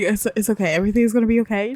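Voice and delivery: quick, easy reassurance at normal pitch; smooth it over for her; reassuring. Acted. Boyfriend calming pregnant girlfriend, quick and reassuring.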